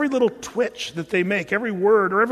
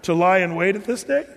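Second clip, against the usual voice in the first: a lightly voiced self-pitying king Saul, rising higher; complaining king; 4 semitones higher than usual. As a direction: reads Saul's words as a wounded grumbling king. Saul's complaint read as scripture.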